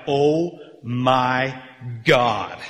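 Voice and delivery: weighty, separated words of amazement; stunned crowd reaction, played out; acted astonishment. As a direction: pause before the last word, landing it hard. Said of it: "everybody in Asia Minor is like".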